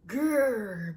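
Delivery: a light coyote growl; mock growl. Coyote threatening the lamb with a mock growl. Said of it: "The coyote growled".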